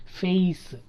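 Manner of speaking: ఫేస్ as "feh-is"; stretched two-sound vowel in ఫేస్; diphthong glide. Shown as a demonstration. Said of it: "ఫేస్ కాదు".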